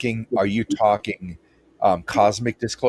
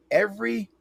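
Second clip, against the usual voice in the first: ordinary talk, nothing marked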